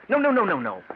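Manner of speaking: quick loud no no no; sudden alarmed refusal; urgent insistence. Acted. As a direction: stop him sharply, rising high. Stopping guest from wrong chair.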